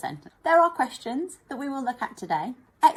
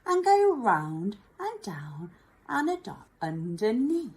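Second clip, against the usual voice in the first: whispered instruction. Shown as a demonstration.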